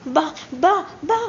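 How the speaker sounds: desperate wordless sounds; mute straining cries. A narrator's reading. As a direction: cry out wordlessly, voice gone. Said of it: "అనే విధంగా అరుస్తూ".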